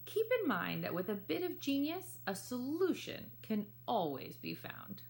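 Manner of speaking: put-on lively read-aloud for children; story narration. A narrator's reading. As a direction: tell the story warmly to young listeners. Reads picture book aloud.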